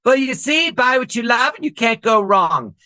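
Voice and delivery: breezy know-it-all tip; a hint of a dim rich man; lightly voiced Mister Canby. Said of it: "I go".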